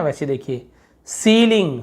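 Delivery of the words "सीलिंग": सीलिंग with a long 'see' first syllable; सीलिंग said as SEE-ling. Shown as a demonstration. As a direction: demonstrate सीलिंग, higher, stretching the 'ee'. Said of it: "बड़ी की मात्रा ई पढ़ते हैं".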